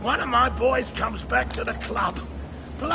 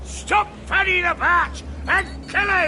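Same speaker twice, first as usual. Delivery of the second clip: angry shout; 5 semitones higher, 3 dB louder than usual. Acted. Penguin orders the kill.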